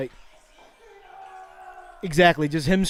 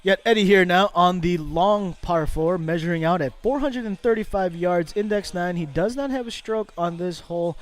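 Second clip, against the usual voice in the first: hushed golf commentary. Acted. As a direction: murmur the play-by-play so as not to disturb the golfer.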